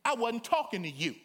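laughing, pointed correction; laughing retort. Retold or imitated. Preacher laughingly correcting the sister in church. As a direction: tease it with a laugh, stress him. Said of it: "I turned and said to the sister".

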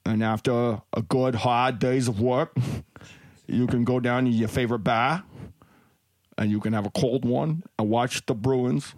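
put-on lightly held Boston accent, swaggering; a Boston cop boasting about his beer and the Bruins; mild Boston bar-talk accent. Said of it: "I just liked it for the Boston accent".

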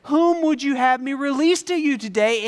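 loud, high call to the crowd; Pilate. Acted. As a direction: proclaim over the crowd. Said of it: "and Pilate says".

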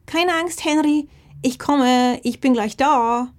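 high, loud, slow worried call; agitated shout. Acted. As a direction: call out, upset and rushing. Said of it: "sie rief aufgebracht".

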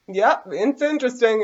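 high, drawn-out mock interest; exaggerated inner reaction. Podcaster airing what they felt about the Dianetics video, exaggerated mock interest. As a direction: voice what you really felt, high and stretched. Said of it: "I didn't say it like that. That's what I was feeling".

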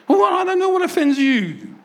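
mock exasperation at being offended; exasperated mock reply. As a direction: throw up your hands in disbelief. Mocking exasperated church-goer.

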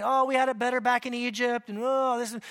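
lightly voiced whiny complaint; a hint of grumbling nagging people; mock-whine the grumbling crowd about Egypt; whining Israelites. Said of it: "They start grumbling and whining".

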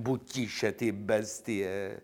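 buď tiše said at normal pitch, slow and pleading; near-plain urgent hush. Acted. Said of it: "domlouvám jí honem".

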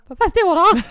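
high, loud, laughing nervously. Retold or imitated. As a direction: giggle through it nervously.

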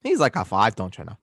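put-on folksy Minnesotan accent; put-on Minnesota accent. Rating a player for co-host, Minnesotan accent. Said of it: "keep this accent".

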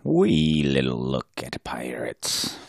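breathy mock whisper. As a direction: hush it like a secret. Mocking echo in a whisper.

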